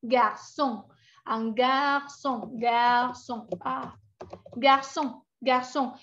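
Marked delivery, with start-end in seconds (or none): 1.2-5.9 garçon with S; French garçon. Shown as a demonstration. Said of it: "sonido muy característico del francés".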